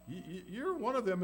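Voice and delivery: high exclamation of recognition; surprised accusation. Acted. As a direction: catch him out, surprised. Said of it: "and she said".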